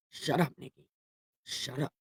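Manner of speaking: very soft aside to oneself; split-personality self-scolding. Acted. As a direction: hush yourself under your breath. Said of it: "This seriously giving me split personalities".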